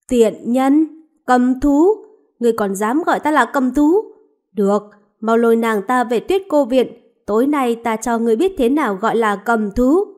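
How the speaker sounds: angry threat. Acted. Enraged lord threatening the woman who insulted him, angry. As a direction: menace her for daring to insult you. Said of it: "tức giận đùng đùng đi xuống".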